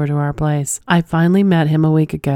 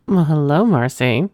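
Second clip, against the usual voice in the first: smooth flirty greeting. Pretend. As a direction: purr the name like a flirt. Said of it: "came out a little too smooth".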